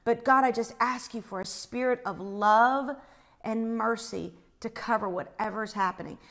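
gentle, sincere praying voice; retold prayer. Retelling a prayer for the distressed woman, gently sincere. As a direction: pray softly over someone in distress. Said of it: "So I prayed for her".

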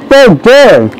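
talking through a mouthful of cookie; mouth full. Acted. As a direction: chew and mumble it out. Eating cookies while talking.

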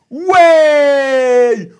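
loud joyful whoop; excited whoop. Real, not acted. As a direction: cheer out with a laugh. Cheering during tabletop game.

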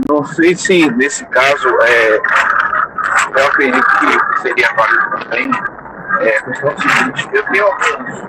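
noisy hands-free car mic; talking over a Bluetooth earpiece; bluetooth headset mic. Real, not acted. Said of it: "tá bastante ruidoso o seu microfone".

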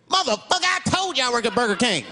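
high-pitched indignant outburst; indignant, high-voiced comeback; indignant retort. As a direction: start high and exasperated, cursing back. Defendant retort to prosecutor.

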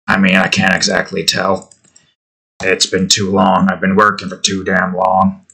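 rough it up like a worn-out builder; low, tired working-man voice. Shown as a demonstration. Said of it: "Doing this voice hurts my".

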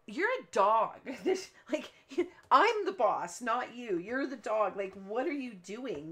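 boss-of-the-house scold, played up; mock scolding the dog. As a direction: put the dog in her place, half-joking. Scolding her dog in retelling.

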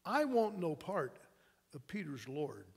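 slow refusal, sinking low and soft; bitter refusal. Acted. Wounded Malchus rejecting Peter's Lord, bitter refusal. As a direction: let it drop away in quiet rejection. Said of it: "he hissed".

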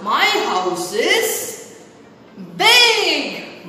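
"my house is" çok yavaş uzatılmış, "big" yüksek ve vurgulu; big stretched slowly. Shown as a demonstration. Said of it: "what I am depicting to my arms".

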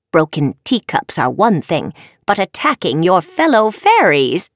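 measured teacherly reprimand; a touch of stern disapproval; lightly voiced scolding professor. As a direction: lecture a wayward student with restraint. Professor scolds her student.

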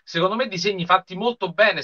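ordinary delivery

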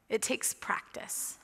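slow, breathy whisper; a hushed, slow aside that drives the point home; whispered emphasis. Real, not acted. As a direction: let it land in a whisper. Emphatic pause in the sermon.

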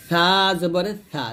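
সা as a light "th" with tongue at upper teeth; thin tongue-tip সা. Shown as a demonstration. Teacher showing tongue placement, সা said thin as "th". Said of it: "আগে লাগে পাতলা করে বলবেন".

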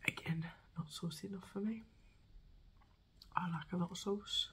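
ASMR review whisper; hushed honest verdict. Real, not acted.

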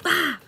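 sudden high loud mock scream; fake scream. Reader jokingly screams mid-reading, fake startled shriek. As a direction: let out a fake startled yell. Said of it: "Just kidding".

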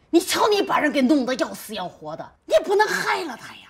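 loud, high, distressed reproach; scolding. Acted. Mother scolding son over his wife, upset. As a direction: take him to task, rising in pitch.

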